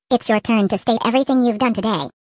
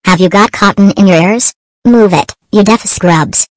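furious teacher yelling; angry shouting; 2 semitones lower, 10 dB louder than usual. Acted. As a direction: bellow at the students.

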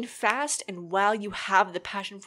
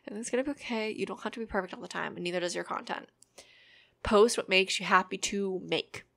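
ASMR voice; 2 semitones lower than usual. Shown as a demonstration. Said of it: "I'm bringing out the A S M R voice".

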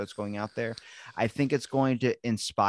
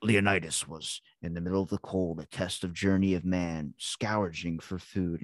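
lightly voiced trailer narrator, slowing at the end; a hint of a dramatic narrator; epic movie narrator; 4 semitones lower than usual. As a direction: intone it like a mock-epic voiceover. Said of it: "And he goes".

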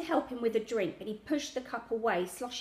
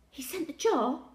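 interrupting; 6 semitones higher than usual. A narrator's reading. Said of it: "Grandad interrupted".

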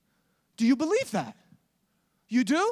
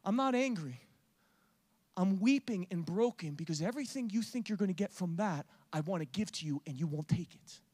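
broken-hearted Jesus. Acted. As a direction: speak gently through sorrow. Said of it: "He says".

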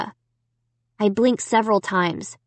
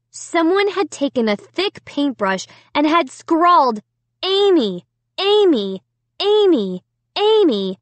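slow, higher, tense narration; hushed horror; 7 semitones higher, 3 dB louder than usual. A narrator's reading. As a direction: tell it in growing dread. Horror at red paint scrawl.

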